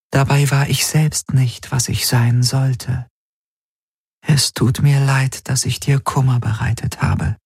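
high, measured voice of a remorseful servant; ergebene Traumgestalt. Acted. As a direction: speak high and devotedly to your master. Die Gestalt spricht zum Meister. (hohe, reumütige Traumstimme)

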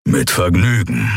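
lightly growled agreement; a touch of a growl, with relish. A narrator's reading. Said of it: "knurrte Keru".

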